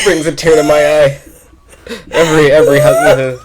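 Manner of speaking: high, loud talk through laughter; laughing to tears. Real, not acted. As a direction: speak while crying with laughter. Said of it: "I'm crying".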